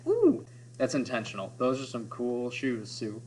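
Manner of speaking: admiring ooh. Pretend. Friends admiring Sue's Yeezys with a soft impressed ooh. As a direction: coo over the shoes. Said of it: "And we say".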